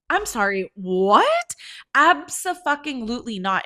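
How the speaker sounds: loud rising disbelief into high, emphatic denial; acting out outraged shock at a false accusation; incredulous indignation. Told that her friend threw a drink, incredulous denial.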